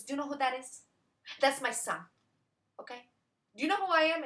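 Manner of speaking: high, sing-song fussy owner; owner's put-on voice. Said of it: "one of those women who talk like this".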